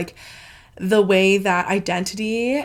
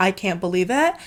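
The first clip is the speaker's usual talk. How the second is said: ordinary talk, nothing marked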